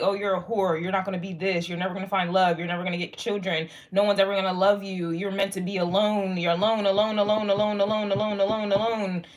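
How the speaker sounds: imitated haters' taunts, running into a chant; relentless mock chant of discouragement; mock taunting. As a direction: mimic their put-downs, looping "alone" without a break. Mimicking haters' taunts, chanting alone.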